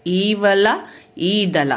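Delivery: ఈవల and ఈదల with the opening ఈ stretched long; long vowel ఈ. Shown as a demonstration. Teacher stretching the long ఈ for pupils. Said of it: "దీర్ఘం అంటే స్వరం పెలుతూ చెప్పేది".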